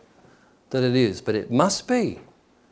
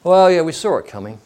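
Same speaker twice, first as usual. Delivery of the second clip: mock smug onlooker, louder; 3 semitones higher, 5 dB louder than usual. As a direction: imitate a smug know-it-all with a big opening. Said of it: "and smugly say".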